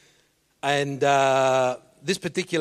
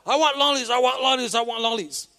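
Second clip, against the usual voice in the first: put-on whining kid, building; 8 semitones higher than usual. Son whining over and over to his dad for lollies. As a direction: nag over and over like a spoilt boy. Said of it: "he's repeating over and over".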